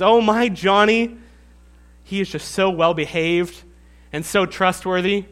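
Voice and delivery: showy proud mom voice; a hint of a passive-aggressive mother; bragging parent.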